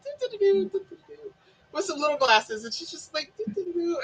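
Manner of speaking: lightly voiced puttering sing-song; little mumbly busybody noises, lightly mimicked; puttering old lady. Imitates old friend pottering about.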